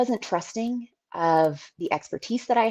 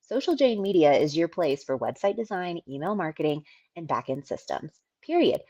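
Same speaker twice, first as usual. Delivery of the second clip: confident. Retold or imitated. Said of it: "confidently turn around and be like".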